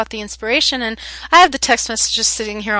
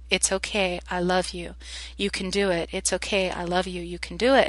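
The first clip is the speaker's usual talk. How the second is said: softer, gentle repeated reassurance; soothing mantra; 6 dB quieter than usual. Retold or imitated. Teacher holding a struggling boy, soft reassuring mantra. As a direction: soothe him, softly, over and over. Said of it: "kept just saying to him".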